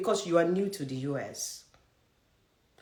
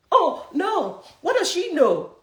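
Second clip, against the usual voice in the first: much higher, scoffing voice of a doubter; mock skeptic; 9 semitones higher, 4 dB louder than usual. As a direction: parody the scoffing listener. Mocking doubters of her advice.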